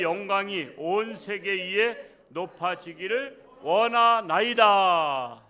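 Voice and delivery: slow, booming recitation of a psalm; loud scripture reading. Shown as a demonstration. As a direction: read it out loud and drawn-out, building to a long final cry. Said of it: "이렇게 큰 소리도 하는 겁니다".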